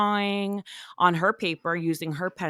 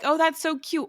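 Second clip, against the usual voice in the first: high, sugary "Oh my gosh" pitched way up; mock gushing; 9 semitones higher than usual. Asking cohost how she'd react, mock gushing coo. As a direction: gush over the kid in a fake-sweet tone.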